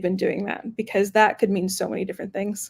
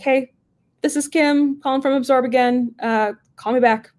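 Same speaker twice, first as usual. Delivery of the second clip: higher, friendly voicemail voice; sweet phone voice; 5 semitones higher, 3 dB louder than usual. Shown as a demonstration. Leaving a short voicemail for a prospect, sweet higher phone voice. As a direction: sound like they're expecting your call. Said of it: "trying to sound".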